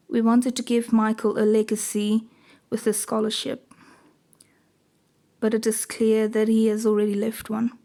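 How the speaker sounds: a hint of a grieving mother, understated; lightly voiced mother giving a speech. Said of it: "now I need to do a mother voice".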